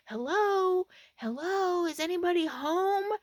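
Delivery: high, loud Arkansas holler; thick Arkansas accent. Retold or imitated. Stranger calling to a parked camper, thick Arkansas accent. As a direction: call out to the house in broad Arkansas twang. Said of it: "in this thick Arkansas accent".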